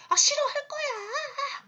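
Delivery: put-on high, slow, drawn-out child's whine; a child shouting no at mom; whiny child refusal. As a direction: play a stubborn kid throwing a tantrum. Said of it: "막 소리를 지르고 때를 써요".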